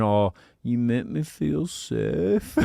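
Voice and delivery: slow drawn-out cooing; cooing line. Shown as a demonstration. Husband's excuse line to Sharon, slow mock tender. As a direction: stretch it out sweetly, mock tender. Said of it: "that's my line I say to her".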